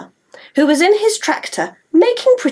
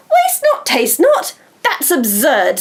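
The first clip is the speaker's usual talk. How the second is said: incredulous; slower than usual. Acted. Molly scoffs at rhyme.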